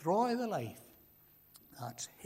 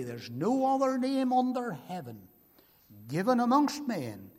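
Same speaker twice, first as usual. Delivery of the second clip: higher and louder preaching cry; ringing proclamation; 6 semitones higher, 6 dB louder than usual. Acted. Preacher proclaims salvation to the congregation, full-voiced. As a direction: proclaim it to the back row.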